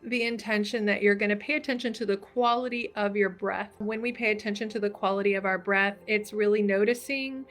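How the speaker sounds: calm meditation guide, leaving room to breathe; guided meditation. Acted.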